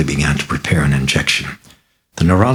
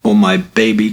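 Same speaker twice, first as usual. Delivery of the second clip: whimpered; 5 semitones higher, 3 dB louder than usual. Acted. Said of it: "Chris whimpered".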